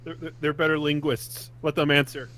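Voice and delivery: talking with a mouthful of food; mouth full. Real, not acted. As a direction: speak around a mouthful. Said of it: "My mouth's full with food right now".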